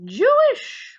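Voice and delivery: high, loud mock Jewish accent; exaggerated Jewish accent. Shown as a demonstration. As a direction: playfully overdo a Jewish accent, pitch leaping up. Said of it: "Jewish accent on that".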